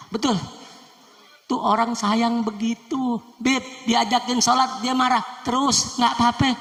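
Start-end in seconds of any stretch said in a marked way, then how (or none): 5.5-6.5 high and fast, swelling into a loud shout on Rasulullah; building preacher's shout. Acted. Preaching the Prophet's suffering.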